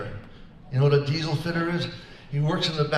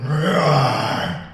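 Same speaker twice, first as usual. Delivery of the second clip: lion roar; 5 dB louder than usual. Retold or imitated. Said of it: "a big lion going".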